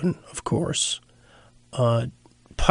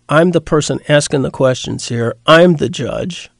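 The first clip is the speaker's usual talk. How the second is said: stern Pilate; 3 dB louder than usual. Retold or imitated. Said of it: "perhaps somewhat exasperated".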